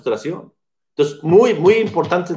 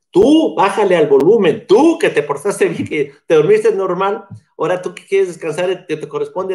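reclamo indignado; 3 dB louder than usual. Retold or imitated. Reproche indignado al papá.

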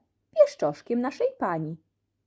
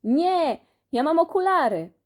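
high, loud protesting shout; panicked cry; 7 semitones higher, 4 dB louder than usual. Acted. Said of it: "który krzyknął".

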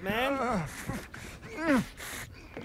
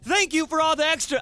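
yelling the caps; 4 semitones higher than usual. Shown as a demonstration. Streamer reading a game letter, yelling the caps. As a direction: belt out the capital letters. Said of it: "I'm yelling because it's in caps".

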